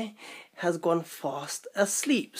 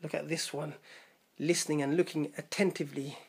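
hushed aside; 3 semitones lower, 8 dB quieter than usual. Real, not acted. Aside while the bear listens.

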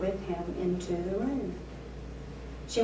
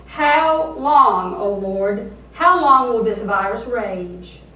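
louder, fierce cry to God; fierce angry cry; 9 dB louder, slower than usual. Acted. Preacher crying out to God in fierce anger, loud. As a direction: hurl the lament at heaven. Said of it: "with the fierce, angry tone".

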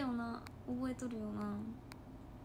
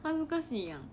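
ordinary talk

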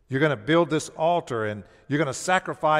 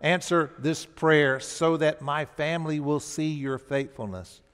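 earnest prayer; 3 semitones higher, 3 dB louder than usual. Shown as a demonstration. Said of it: "I need to say".

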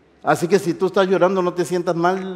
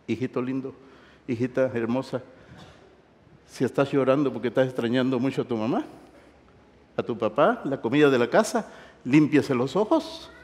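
tender consoling; 5 semitones lower, 5 dB quieter than usual. Real, not acted. Consoles homesick students tenderly.

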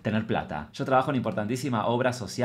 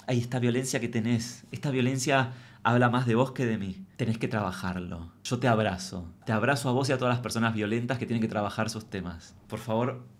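softly preachy, self-pitying victim voice; playing victim; 3 dB quieter than usual. Comedian mocking her own victim act with the boss. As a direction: play the wounded victim lecturing back. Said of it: "yo muy víctima".

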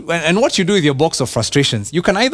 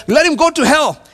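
mock curse; 9 semitones higher, 3 dB louder than usual. David's curse again.

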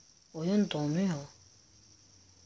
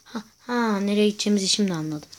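excited; 2 semitones higher, 6 dB louder, faster than usual. Real, not acted. Sudden realization during game.

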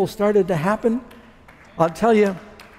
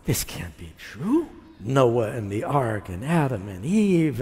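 doubting; 5 semitones lower, 3 dB quieter, slower than usual. Retold or imitated. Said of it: "I'm going".

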